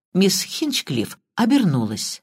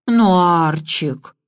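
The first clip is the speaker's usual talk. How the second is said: slow, coaxing little whimper; wheedling whine; much slower than usual. Acted. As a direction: whine sweetly to win him over. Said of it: "голос миссис Истербрук стал заискивающе плаксивым". (заискивающе плаксиво)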